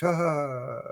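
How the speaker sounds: soft, drawn-out sigh of relief; imitated calming sigh. Man calmed down under regression, imitated soft sigh. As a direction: let the anger out in an acted sigh. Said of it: "they sort of calm him down".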